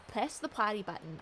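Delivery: "potty" said for "party", a slip of the tongue; "potty button" with the "ar" in "party" said as the "o" in "pot"; misread word. Real, not acted. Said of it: "I can speak English".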